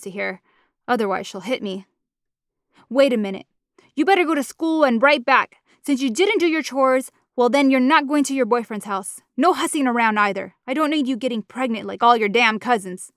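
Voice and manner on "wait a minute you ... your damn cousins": stern angry mother. Acted. Mama forbidding her daughter from seeing her boyfriend. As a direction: lay down the law hard.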